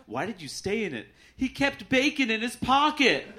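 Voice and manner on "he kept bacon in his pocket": high, slow, put-on voice of a dog lover; mock dog owner. Dog lover explaining her ex, high and slow. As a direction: say it up high and slow like it's a good reason.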